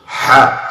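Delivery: "Ha" from the middle of the throat; a tighter mid-throat "Ha". Shown as a demonstration. Teacher showing the middle-throat letter. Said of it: "from the middle of your throat".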